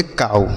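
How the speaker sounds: "काऊ" with ow sounded as "आऊ"; ow read as au. Shown as a demonstration. Teacher reads out the spelled word, "काऊ" with au. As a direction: model "काऊ" with an au glide. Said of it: "इसे पढ़ेंगे".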